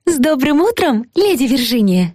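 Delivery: high chirpy voice. Acted. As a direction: chirp it like a cheery bird. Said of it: "прощебетала Магда тоненьким, звонким голоском".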